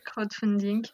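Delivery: "crowdfunding" said with an English accent; self-mocking English accent on "crowdfunding". Shown as a demonstration. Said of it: "avec mon accent anglais absolument magnifique".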